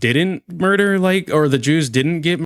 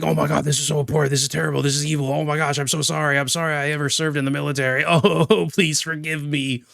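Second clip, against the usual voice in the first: mock someone begging forgiveness; mock groveling apology; faster than usual. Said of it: "I'm not gonna be like".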